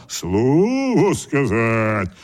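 very slow roaring bear. A narrator's reading. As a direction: growl it out slowly like a bear. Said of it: "ревнул медведь".

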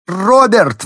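high, loud shriek of his name. A narrator's reading. Wife in labour shrieks for her husband. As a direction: squeal for him in panic. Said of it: "взвизгнула Элизабет".

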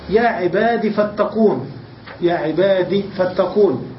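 "عباد" said "ibadi", short i; kasra without ya. Shown as a demonstration. Teacher quoting the verse to show dropped ya, short i. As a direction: say "عباد" slowly with short final i. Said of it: "بحذف الياء وترك الكسرة".

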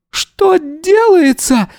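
very high, slow wail of a yell. A narrator's reading. Yana yelling at the police search, very high and slow. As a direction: cry out in outrage. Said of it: "заорала Яна".

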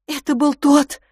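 abrupt, biting retort; sharp interjection. A narrator's reading. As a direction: cut in sharply and loud. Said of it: "неожиданно резко вмешался Филипп".

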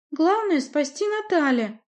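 put-on high, girlish pleading voice; a lioness girl, flustered and breathless; girlish high voice, anxious; young princess voice. Nadya's voice, high.

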